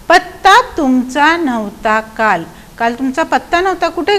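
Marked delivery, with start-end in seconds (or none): 0.1-2.4 slow, stretched verse rhythm; poem recitation. Shown as a demonstration. Teacher reciting the question put to the frog, slow recitation. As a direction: recite it in drawn-out beats. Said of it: "बेडकाला पण विचारलं गेलं".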